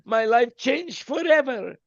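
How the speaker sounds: slow, lightly hammed-up revelation; mock dramatic memory. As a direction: say it slowly like a life-changing memory. Pretend hypnotized memory, dramatic.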